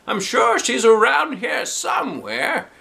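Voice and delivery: high, slow called-out reassurance; steady the kids; teacher reassuring. Acted. Doctor Nicholas calming the searching class. Shout heard, adult reassuring.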